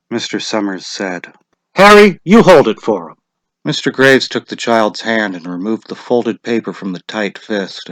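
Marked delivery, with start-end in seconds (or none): 1.7-3.2 lightly voiced official, raised and brisk; a hint of a village official calling out; lightly voiced lottery official; Mr. Summers' voice. A narrator's reading.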